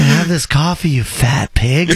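savouring the fat pig line with laughter; laughing mock quote. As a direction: drag out the insult while laughing. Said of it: "He said".

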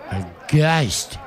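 loud spooky pronouncement; emphatic ghost claim; dramatic declaration. Acted. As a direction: announce the ghost with a flourish.

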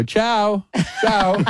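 high, lilting mock ciao; annoying casual farewell. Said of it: "I've started doing it annoyingly".

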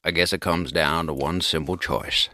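low and unhurried, quietly wise; Morgan Freeman. Retold or imitated. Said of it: "That's a great Morgan Freeman".

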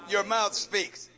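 slow, every word weighed; slow down and land each word; slow emphatic answer. Acted. Slow answer to his question.

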